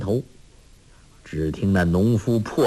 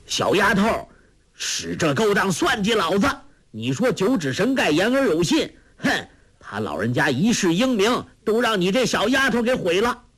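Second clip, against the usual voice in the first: put-on higher, rough scolding voice of an old farmer; cursing; 8 semitones higher than usual. Trapped farmer curses the girl who tricked him, angry and high. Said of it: "那农夫骂道".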